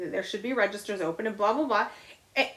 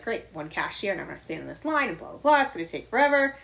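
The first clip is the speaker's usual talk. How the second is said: imitating pissy grumble; faster than usual. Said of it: "instantly he's in a pissy mood".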